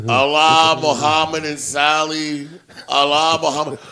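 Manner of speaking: mock recital. Imitating the repeated funeral recital.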